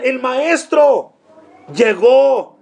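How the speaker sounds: high, drawn-out imitation of squealing schoolgirls; a light mock cry of girls spotting the teacher; mock girls' squeal. Preacher retelling schoolgirls crying out at the teacher's arrival, mock squeal. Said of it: "las jovencitas gritaban y decían".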